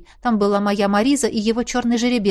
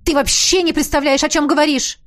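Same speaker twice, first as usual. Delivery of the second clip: loud, enraged retort; 5 semitones higher, 4 dB louder than usual. A narrator's reading. Heroine enraged at Einar, shouting back. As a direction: lash out in fury. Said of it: "Я взъярилась".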